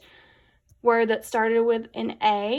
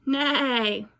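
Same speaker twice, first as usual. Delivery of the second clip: horse neigh; 2 semitones higher than usual. Shown as a demonstration. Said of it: "Who says neigh?".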